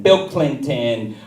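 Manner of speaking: normal talking voice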